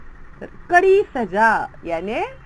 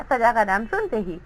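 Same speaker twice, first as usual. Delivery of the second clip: ordinary delivery, nothing marked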